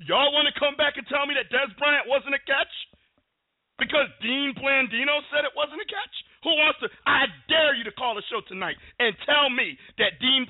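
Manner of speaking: high-pitched, indignant sports rant; heated rant. Real, not acted. Host ranting to listeners about a blown referee call, real indignation. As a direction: challenge the callers, voice pushed way up in outrage. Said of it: "had to start off on a rant".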